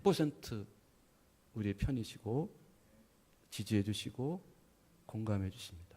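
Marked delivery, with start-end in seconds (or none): 5.1-5.8 공감해 주십니다 in a hushed breath; preacher whispering the promise. Real, not acted. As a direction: whisper it to the congregation. Sermon climax, voice drops.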